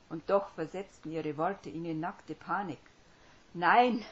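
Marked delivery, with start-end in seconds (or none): 3.5-4.0 panicked scream of no. Acted. Paralysed man begging not to be saved, screaming. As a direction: scream it in terror. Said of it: "wollte er schreien".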